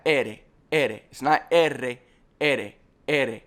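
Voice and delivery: ere said with a single light tap; tapped R. Shown as a demonstration. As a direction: tap the R once in ere, no roll. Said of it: "a little tap".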